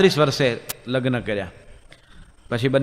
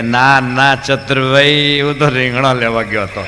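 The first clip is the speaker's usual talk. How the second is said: deaf man shouting; 4 dB louder, slower than usual. Retold or imitated. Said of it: "હંમેશા જોરથી જ બોલવાનું".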